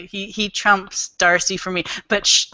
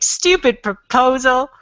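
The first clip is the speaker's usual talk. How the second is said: mock-aggrieved reader protesting; exasperated outburst. Reader complains to the book about its ending, mock exasperated. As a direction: draw out the first complaint in mild despair.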